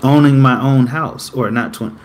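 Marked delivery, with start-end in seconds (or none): none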